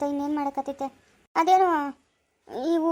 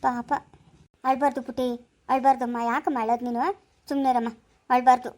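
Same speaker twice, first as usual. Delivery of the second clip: put-on gentle hushing of a crying child; tender coaxing; soothing; 3 semitones lower than usual. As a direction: comfort the little one, voice slightly lowered.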